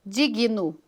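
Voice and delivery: "digno" broken as DI-GUI-NO, an extra vowel after G; wrong syllable split. Shown as a demonstration. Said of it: "Ao invés de usar digno". ("digno" dito como DI-GUI-NO)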